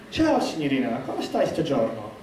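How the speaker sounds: suave and debonair. Retold or imitated. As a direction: lay on the Italian charm, slowly. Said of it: "suave and debonair".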